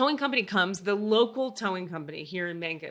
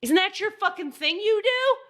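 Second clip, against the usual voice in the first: angry; 4 semitones higher, 3 dB louder than usual. Retold or imitated. Retold angry confrontation with tower.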